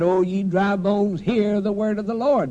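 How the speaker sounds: high, sustained preacher's cry. Retold or imitated. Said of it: "He cried".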